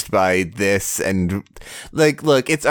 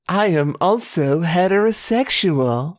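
mocking echo; 7 semitones higher than usual.

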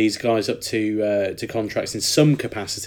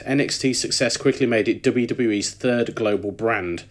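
a hint of a Brummie accent. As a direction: Triple H read lightly in a Brummie accent. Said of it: "Triple H just turned into a brummie".

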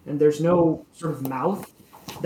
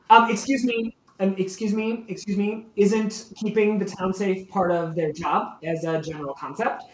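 pushy townsperson; 4 semitones higher than usual. Acted. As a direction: call out over the crowd, high and insistent. Townsperson objecting again.

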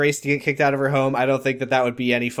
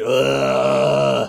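imitated groan. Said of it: "he goes, "Ugh".

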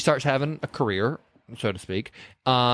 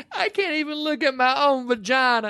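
laughing; 11 semitones higher than usual. Retold or imitated. Evelyn wail, laughing.

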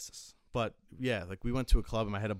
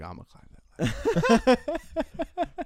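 much higher, louder and very slow, stretched-out squeal; exaggerated drunk buddy; 9 dB louder, much slower than usual. Friend insisting again on climbing the cage ladder, hammed-up squealing brag. Buddy repeats boast, bigger.

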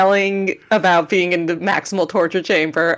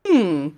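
thoughtful hum. Retold or imitated. Describing a silent robot, a mildly imitated thoughtful hum. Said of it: "very thoughtful hum".

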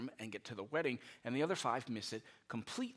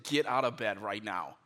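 louder, firm, mock-stern command; stern parent order; 5 dB louder than usual. Parent ordering a still-sleeping kid out of bed, stern and loud. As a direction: play the fed-up parent laying down the law. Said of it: "Now I'm saying".

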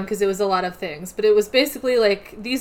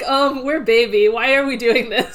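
whiny Fushiguro; 2 semitones higher, 5 dB louder than usual. Retold or imitated. Fushiguro voiced whining.

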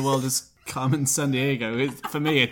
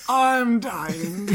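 breathless through laughter; gasping it out while laughing; 8 semitones higher than usual. Real, not acted. Overcome with laughter at the truffle joke, gasping.

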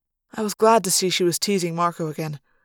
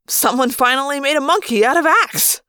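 smug satisfaction; 7 semitones higher, 5 dB louder than usual. A narrator's reading. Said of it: "commented with great satisfaction".

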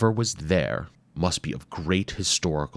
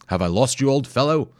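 a hint of a cheerful explorer calling out; lightly voiced explorer; 7 semitones higher, 5 dB louder than usual. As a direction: call back jovially, slightly higher. Hayabusa calls to companion.

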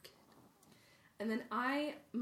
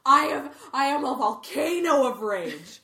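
1 mock rage; 3 semitones higher, 13 dB louder than usual. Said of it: "I was like".

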